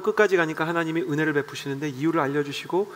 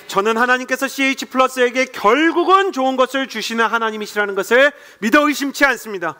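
builds louder and higher with each declaration; full-force preaching; 5 semitones higher, 4 dB louder than usual. Acted. Pastor declaring faith over the congregation, in full-force preaching. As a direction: preach it, swelling with conviction.

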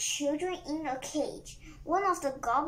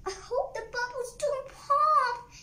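high, louder anxious yell; pitched-up storybook yell; 10 semitones higher, 5 dB louder than usual. A narrator's reading. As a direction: call it out high, leaning on "pop". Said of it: "yelled Chip".

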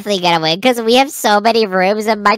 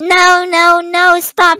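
sharp loud no; 7 semitones higher, 3 dB louder, much slower than usual. Acted. Partner stops the dirt placing.

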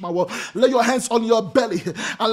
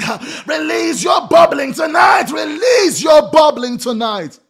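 fervent prayer cry; 2 semitones higher, 3 dB louder than usual. Real, not acted. Preacher calls on worshippers to release it, fervent shouted chant. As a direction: cry it out in full-force prayer, stretching the words.

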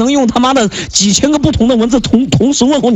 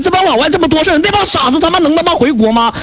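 angry rant; 6 semitones higher than usual. Real, not acted. Heated rant at foreign chat partner.

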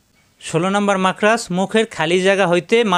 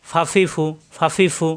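"ফাফি ফু" with short vowels; no lingering on "ফাফি ফু"; brisk syllables in "ফাফি ফু"; quick short vowels; slower than usual. Shown as a demonstration. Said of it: "হারকাত আসলে উচ্চারণ তাড়াতাড়ি".

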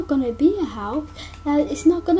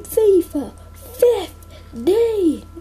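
drawn out slowly; 3 semitones higher, much slower than usual. Real, not acted. Announcing next video.

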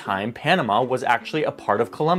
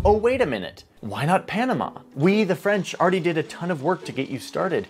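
lightly voiced giddy Frenchman, pitched up; giddy scheming; 5 semitones higher than usual. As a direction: play it as a sly, delighted pitch. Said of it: "He's, like, all giddy".

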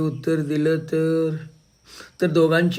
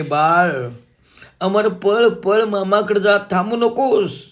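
high, loud call to run; urgent shout; 5 semitones higher, 5 dB louder, slower than usual. Retold or imitated. Mother yelling to son to run to uncle, urgent shout. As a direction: yell at the boy to get away now.

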